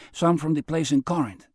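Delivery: put-on light Mexican accent, offhand; a hint of Mexican accent, matter-of-fact. Tonto telling Jerry where he shopped, light Mexican accent. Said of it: "with an accent from down Mexico way".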